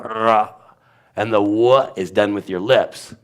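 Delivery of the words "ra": "Ra" with the R made at the back of the throat; throaty R. Shown as a demonstration. Teacher showing where R is made, throaty. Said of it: "R is actually in the back of your throat".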